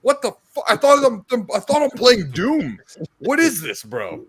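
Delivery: very high, panicked cries. Retold or imitated. Gamer hit by a jump scare in Doom, high panicked cries. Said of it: "You're like".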